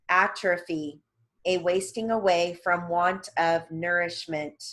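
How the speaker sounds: measured, evenly paced word-by-word dictation; dictation reading. Real, not acted. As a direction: read out glossary entries with careful enunciation. Reads terms for dictation.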